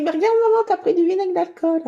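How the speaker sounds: high, loud mock exclamation to Mum; imitating Luc. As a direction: pipe up like a child alerting his mother. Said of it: "Luc me dit".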